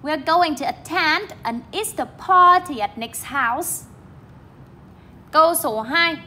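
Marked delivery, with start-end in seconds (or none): 0.0-3.8 slow reading, TEND in attend and PAR in party stressed; teacher's model with attend and party picked out; model sentence reading. Shown as a demonstration. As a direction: read it out slowly, lifting at-TEND and PAR-ty. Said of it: "chúng ta đọc lại này".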